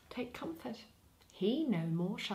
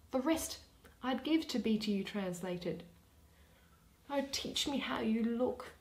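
lightly voiced jealous young woman, pleading; envious Helena. Helena pleading with Hermia, mildly voiced and longing. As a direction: ache and envy under the praise.

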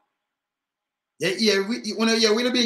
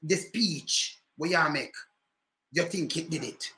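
slow, softer mock of the politician; mocking quote; 5 dB quieter, slower than usual. Mocking the politician's speech to listeners, slow and softer. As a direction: drag it out slowly as a sneering impression. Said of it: "if you come and say".

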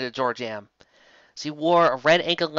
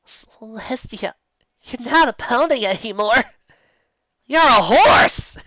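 high, slow and amazed; slow amazed exclamation; 10 semitones higher, 8 dB louder, slower than usual. Acted. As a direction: marvel at it, slow and loud. Megan amazed.

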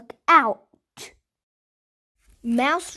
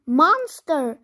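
crying out; 2 semitones higher, slower than usual. Acted. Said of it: "so he cried".

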